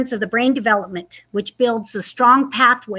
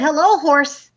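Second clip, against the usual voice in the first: louder bright hello; cheery duck greeting; 3 semitones higher, 3 dB louder than usual. Acted. Duck greets the horse, bright call. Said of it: "said the duck".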